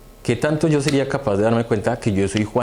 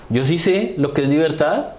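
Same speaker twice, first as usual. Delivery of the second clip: first know-it-all; 4 semitones higher than usual. Retold or imitated. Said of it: "dice otra persona por ahí".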